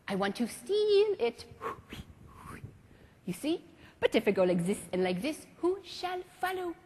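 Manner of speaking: put-on lightly French-accented teacher; a hint of a stately French maestro; French mime master. Marceau calls students up in class, lightly French.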